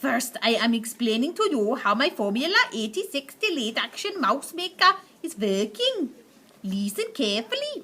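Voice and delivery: lightly voiced witch lecturing her audience; a hint of a commanding old witch explaining. Witch explains her plan to the audience, commanding.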